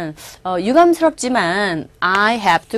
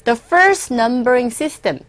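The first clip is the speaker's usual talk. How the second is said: slow text reading; much slower than usual. Shown as a demonstration. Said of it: "teacher reads text".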